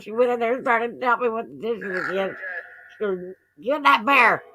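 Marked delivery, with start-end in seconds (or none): 3.6-4.4 imitating a rattled daughter, raised pitch and volume; mildly freaked out. Daughter to mother about the lit-up bear, mildly freaked out. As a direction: retell it as a mock-alarmed outburst. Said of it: "she got kinda freaked out".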